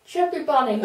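mushy words through a full mouth; cheeks stuffed full. Real, not acted. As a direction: say it past a mouthful of marshmallows. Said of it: "It's a Chippy Bunny".

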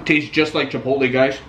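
talking with mouth full; chewing a big bite while talking. Real, not acted. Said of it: "Sorry, I don't wanna talk with my mouth full".

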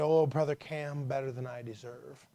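lightly voiced frail church sister; a hint of a weak, ailing voice; frail woman's voice. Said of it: "in her frail voice".

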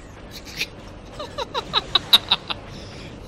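high laugh. Real, not acted. Embarrassed after odd remark.

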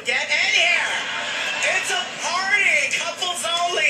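slow, inviting mock salesman; imitating shop clerk. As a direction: clerk calling the couple in, hammed-up. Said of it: "he goes".

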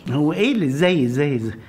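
exasperated, pitch jumps up. Acted. Husband exasperated at questioning.

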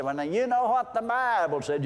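preacher mimicking a whiny churchgoer, mock whine. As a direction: imitate a whining know-it-all quoting scripture. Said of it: "that whine in their voice".

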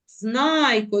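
Знайко leaning on знай; emphasised first syllable of Знайко; stress on first syllable. Shown as a demonstration. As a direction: put the weight on знай in Знайко. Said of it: "вимовляємо з більшою силою голосу".

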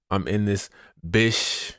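slow line landing on a stretched "bish"; pause, then draw out "bish"; drawn-out bish. Real, not acted. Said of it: "You gonna say it just like that".

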